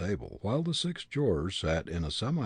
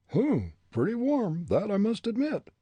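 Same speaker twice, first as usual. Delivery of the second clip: put-on higher, defiant young prisoner; defiant young man; 14 semitones higher, 5 dB louder than usual. A narrator's reading. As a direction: throw back the accusation. Hartley voiced.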